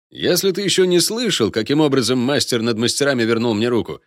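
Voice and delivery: loud, high, scornful dwarf tirade; sneering and furious; contemptuous. A narrator's reading. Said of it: "презрительно скривился Гмалин".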